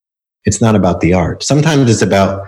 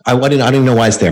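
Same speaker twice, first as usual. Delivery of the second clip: upset rush; 4 semitones higher, much faster than usual. Retold or imitated. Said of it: "She got really upset".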